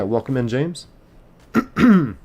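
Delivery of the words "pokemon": high, loud name call; excited call. Real, not acted. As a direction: sing out the username. Reading chat name aloud.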